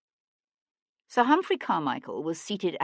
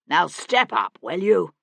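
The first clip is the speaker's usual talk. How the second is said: louder, insistent step up; impatient command; 6 dB louder than usual. A narrator's reading. Hendon, impatient, orders his son into the carriage loudly. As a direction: push him to get in now. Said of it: "Hendon growled".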